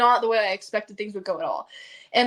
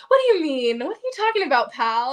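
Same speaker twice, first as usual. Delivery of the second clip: feigned innocence; 3 semitones higher, 4 dB louder than usual. Retold or imitated. Upline deflecting her question, mock-innocent. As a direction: play dumb, pitched up. Retold friend playing innocent.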